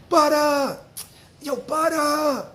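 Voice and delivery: loud, high call of a name; yelling out window. Retold or imitated. Friend yelling up at his window in the morning, loud and high. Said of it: "He yelling out the window".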